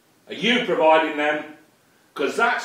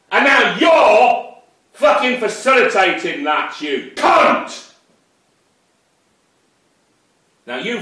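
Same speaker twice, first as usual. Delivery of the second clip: loud, high, furious insults; real anger, yelled; angry shouting; 5 semitones higher, 5 dB louder than usual. Real, not acted. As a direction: spit the abuse at him. Insulting the ex-policeman.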